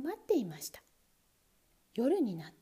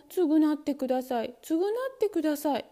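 desperate plea; 4 semitones higher, 5 dB louder than usual. Acted. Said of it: "もう言う力がありませんでした".

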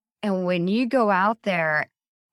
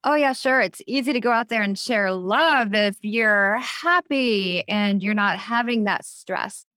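sceptical listener. Retold or imitated. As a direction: play the doubter rolling their eyes. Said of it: "I can hear people out there right now saying".

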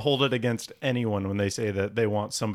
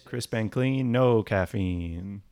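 slogan read, slow; much slower than usual. Pretend. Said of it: "old Seven Up slogan".

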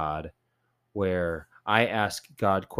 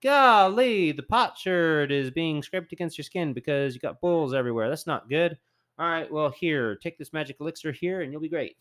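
higher, louder, breezy mock God; God's voice; 9 semitones higher, 4 dB louder than usual. God cheerfully telling suffering Job he'll be fine, hammed-up and higher. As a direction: play God as a chummy fixer. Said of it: "be like".

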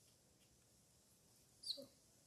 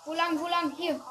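loud, higher frantic asking; panic, searching for the way; panicking gamer; 3 semitones higher, 8 dB louder than usual. Real, not acted. Lost the robber in game.

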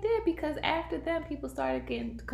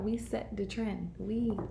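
put-on Jamaican accent; 2 semitones lower, 9 dB quieter, slower than usual. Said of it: "that was your Jamaican accent?".

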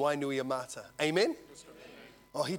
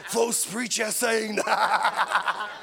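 mock critic; 4 semitones higher, 4 dB louder, much slower than usual. Mocking imagined online critics.

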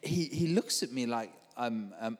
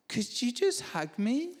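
slow, high-pitched mock-tearful plea; imitated weepy pleading; 9 semitones higher than usual. Crying man asking preacher for a hug, imitated weepy voice. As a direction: beg like someone about to wail. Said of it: "he starts screaming again".

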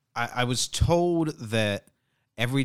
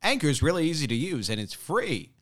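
lilting, slightly higher ad pitch; ad read; 5 semitones higher than usual. Shown as a demonstration. Host demonstrating his own Anchor ad, ad-read voice. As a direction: sell it like a podcast host's ad. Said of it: "it's just me saying".

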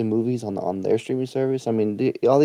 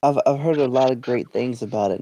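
sarcastic. Acted.

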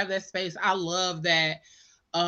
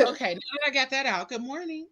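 laughing; 3 semitones higher, 4 dB quieter than usual. Retold or imitated. Retold own calm greeting.

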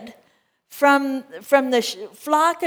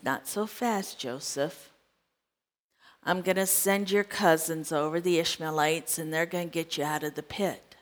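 soft voice of God; 6 semitones lower, 10 dB quieter than usual. Retold or imitated. God answering Joseph in story.

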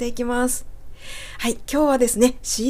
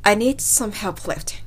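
slow model sentence; slower than usual. Shown as a demonstration. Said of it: "Iかweが抜けていますね".

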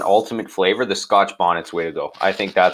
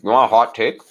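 mouth full; faster than usual. Real, not acted. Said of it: "chewing with my mouth full".

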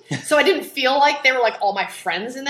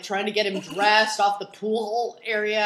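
normal talking voice

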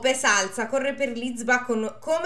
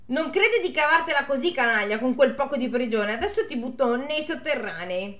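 mock shout; 3 semitones higher than usual.

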